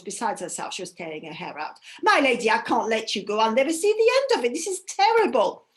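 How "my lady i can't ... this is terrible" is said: distressed servant. Acted. Servant beside herself.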